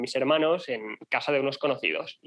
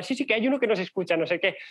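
high giggly retelling; laughing sister; 6 semitones higher than usual. Retold or imitated. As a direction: imitate her laughing as she talks. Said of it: "y riéndose". (imitando a la hermana entre risas)

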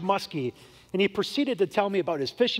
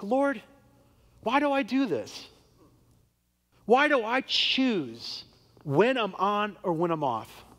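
pleading prayer; 3 semitones higher than usual. Retold or imitated. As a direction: plead with the Lord, searching. Prays in the restroom.

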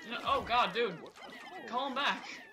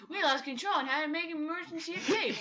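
Alf voice. Acted. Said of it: "I'll do Alf's voice".

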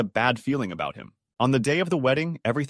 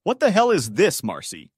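raised, louder, outraged challenge; angry demand; 7 semitones higher, 5 dB louder than usual. A narrator's reading. Jilted groom confronting his bride at the altar, angry demand. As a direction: demand an answer in angry disbelief. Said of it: "he demanded".

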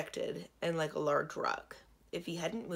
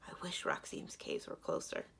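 low, softer grumble under the breath; muttering to oneself; 13 semitones lower, 5 dB quieter than usual. A narrator's reading. Girl grumbles to herself about the long walk, muttering. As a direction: mutter a private wish, softly. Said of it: "Still muttering".

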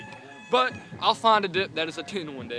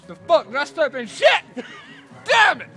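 surprised; 9 semitones higher, 7 dB louder than usual. Real, not acted. Stepped in something outside.

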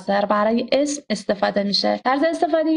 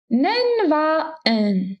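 slow demo; 5 semitones higher, much slower than usual. Shown as a demonstration. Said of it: "slow teaching demo of particles".

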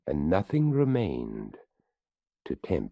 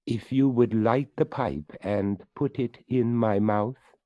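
higher, louder skeleton voice; 7 semitones higher, 5 dB louder than usual. Acted. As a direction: speak up as the courteous skeleton. Skeleton speaks to the boy.

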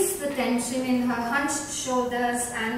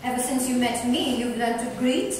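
playful, louder teasing; 3 semitones higher, 3 dB louder than usual. Acted. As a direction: tease your friend fondly. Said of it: "teased Violet".

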